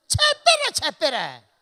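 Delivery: very high, loud dismissive bark; curt Gyeongsang man. Retold or imitated. Gyeongsang man shutting down his wife's chatter, loud dismissive bark. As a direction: cut her off, loud and impatient. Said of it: "뭔 얘기만 하면".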